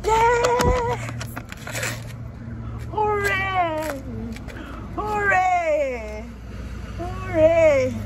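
high, drawn-out cries of hooray; real joyful cheering. Real, not acted. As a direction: cheer in triumph. Cheering over AdSense approval.

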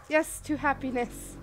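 loud cheerful toast; cheering toast. Acted. Player toasts in the game, a loud cheerful toast. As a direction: raise a glass with gusto.

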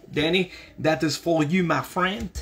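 put-on French accent, lilting up at phrase ends. Streamer dedicates a signed print to a friend, French accent. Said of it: "The reason I did a French accent".

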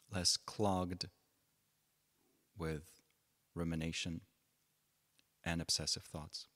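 measured phrases with long pauses between; unhurried meditation teacher, pausing often; guided meditation. Real, not acted. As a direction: guide them gently into stillness, leaving space after each phrase.

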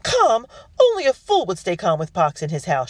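high, loud outraged panic; shriek. A narrator's reading. Guest flees a house with pox, loud high shriek. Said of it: "she shrieked".

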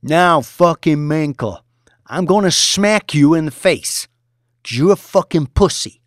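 high, loud sneering tirade; mocking yell. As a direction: humiliate him at full volume. Boss threatening tied trader.

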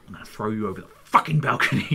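fast retold threat through laughter; retelling Dad's threat while laughing. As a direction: rattle off the threat, amused.

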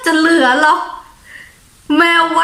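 laughs, then asks through the laughter; a real amused laugh into the words. Real, not acted. Laughing at cats soiling pots. (หัวเราะแล้วพูดทั้งที่ยังขำ)

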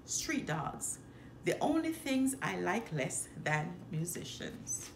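a mild sour grumble. Acted. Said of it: "He often heard her grumble".

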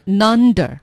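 "nunder" for "under" after didn't; linked n. Shown as a demonstration. Learner checking the linked sound, "nunder" with initial n. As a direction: start "nunder" on an n. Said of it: "是一个nunder".

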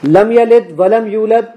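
slow, deliberately mispronounced Quran recitation of لم یلد ولم یولد; slow recitation with deliberate tajweed errors; deliberately wrong recitation. Shown as a demonstration. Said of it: "اب میں اس کو غلط پڑھوں گا".

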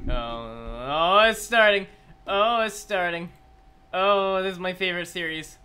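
long swelling oh, rising into excitement; excited anticipation. Real, not acted. Streamer as the reveal starts, excited anticipation.

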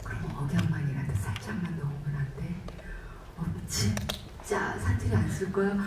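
low, hushed mock-nervous whisper, quick then slowing; anxious whisper. Actor nervously asking the director about dialect, hushed whisper. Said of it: "제가 불안하니까".

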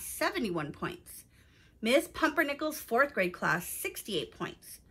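put-on clear, expressive storytelling to young listeners; story narration. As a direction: read it aloud like a picture book for children. Reads a children's story aloud.

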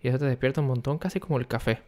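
hushed, kept-down voice; talking quietly. Real, not acted. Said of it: "estoy hablando bajito". (hablando bajito por los vecinos)

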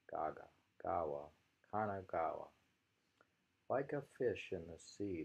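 measured rereading of the haiku; poem reading. Acted. Teacher rereading the haiku for the class, measured. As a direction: read it through again steadily.

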